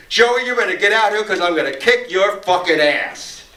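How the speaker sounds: mock yell of a threat; retold scream. Drug dealer calling across the diner to Joey, mild mock scream. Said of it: "screams across the counter".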